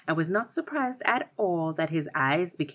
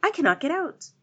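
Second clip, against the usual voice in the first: high, louder desperate plea; crying out; 13 semitones higher, 5 dB louder, faster than usual. A narrator's reading. Stuck spider pleads with the girl from the tree, high and loud. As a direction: wail that he is stuck. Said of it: "cried the spider".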